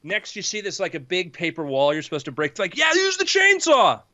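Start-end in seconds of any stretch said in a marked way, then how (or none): 2.8-4.0 high, excited urging yell; egging on. Acted. Teammate urging the fighter to break through, high and excited. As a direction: cheer them on to do it.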